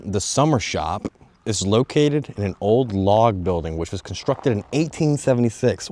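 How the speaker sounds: reading off an information text with emphasis; reading aloud. Real, not acted. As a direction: read it out for the viewers, punching key words. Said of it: "Let's just read it off".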